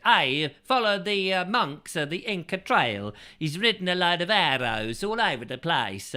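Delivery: mock Italian. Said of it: "it's an Italian one".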